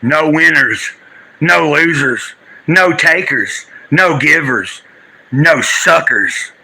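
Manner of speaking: slow, grave spoken-word delivery; solemn recitation. Acted. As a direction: declaim it slowly like a poem. Dramatic recitation opening the stream.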